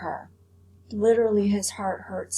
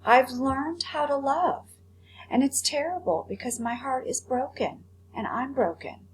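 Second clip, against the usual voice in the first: retelling Edward's plea; 3 semitones higher than usual. Retold or imitated. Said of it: "He says".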